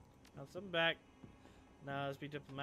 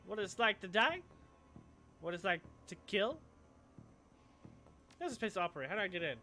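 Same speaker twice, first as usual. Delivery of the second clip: sleazy dealer pitch; 3 dB louder than usual. Acted. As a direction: tempt them with the goods. Dealer pitches BTL chips.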